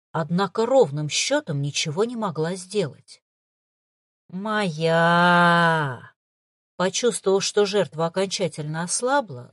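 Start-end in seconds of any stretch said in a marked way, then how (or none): 4.3-6.1 triumphant shouted growl; gloating darkness. A narrator's reading. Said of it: "злорадно констатировала тьма".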